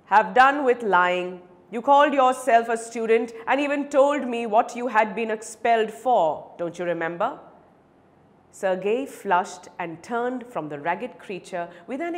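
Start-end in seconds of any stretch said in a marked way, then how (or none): 0.1-7.4 louder, firm rebuke; stern accusation. Acted. Advocate confronts the lying beggar, stern and accusing. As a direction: confront a liar firmly.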